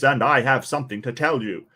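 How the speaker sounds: imitating his smooth radio-host voice; a hint of an old radio announcer; mock radio presenter. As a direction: lightly mimic a radio presenter. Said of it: "He's got this voice where he talks like this".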